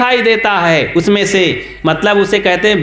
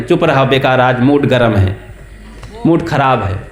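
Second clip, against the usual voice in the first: lower, irritable grumble of a moody husband; grumpy husband; 7 semitones lower than usual. Acted. Husband in a bad mood brushes off his wife, low and grumpy. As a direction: brush her off, sulky and cross.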